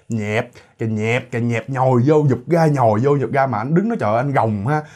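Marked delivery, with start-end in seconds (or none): 0.1-3.5 rhythmic mock squelch, kept low-key; squelching sound imitation. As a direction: imitate wet guts squelching in and out. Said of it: "anh nghe cái tiếng bẹp". (nhại tiếng lòng ruột nhồi bẹp nhẹp)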